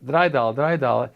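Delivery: repeated bid, punched out; Yiddish auction caller. Retold or imitated. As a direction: call the next bid like an auctioneer. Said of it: "there was a bidding process".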